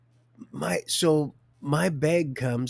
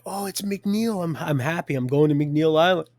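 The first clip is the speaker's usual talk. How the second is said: mock delight; 5 semitones higher, 6 dB louder than usual. Retold relief at destination.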